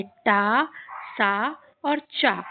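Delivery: टा, सा, चा as three separate drawn-out syllables; teacher demonstrating टा, सा, चा one by one; sounds of T. Shown as a demonstration. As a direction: sound out टा, सा और चा slowly, each with a long open vowel. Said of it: "टी की आवाज़ तीन तरीके से निकलती है".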